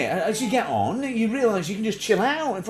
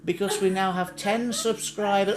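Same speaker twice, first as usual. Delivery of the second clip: slow, solemn seance call; mock seance medium calling for viewers; slower than usual. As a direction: summon the viewers like spirits. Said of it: "like a seance".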